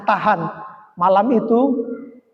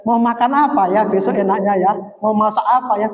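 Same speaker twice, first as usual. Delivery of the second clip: idly choosing tomorrow's tasty meal; easy, everyday what-shall-we-eat question; casual menu musing. Acted. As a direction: muse lightly over what to cook. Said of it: "Jadi pertanyaannya bukan".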